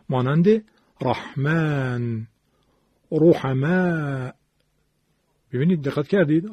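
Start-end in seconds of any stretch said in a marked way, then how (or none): 1.0-4.3 slow recitation with a heavy, full R in رحمن، رحمه. Shown as a demonstration. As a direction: demonstrate the thickened R of رحمن، رحمه slowly. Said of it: "اول موارد تفخیم را".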